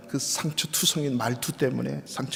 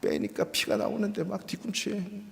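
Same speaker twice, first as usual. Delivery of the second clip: ordinary talk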